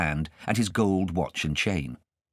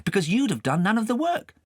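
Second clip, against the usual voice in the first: high, lightly voiced boy; young boy; 3 dB louder than usual. Kay answering his guardian, a high boy's voice. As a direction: answer shyly as a small boy.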